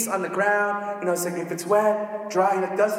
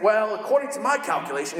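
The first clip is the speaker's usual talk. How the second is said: nerdy dork voice for Gideon; a lightly voiced nerdy Gideon; Gideon's nerdy voice. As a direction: play Gideon as a know-it-all dork. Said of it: "I don't know why I do that voice".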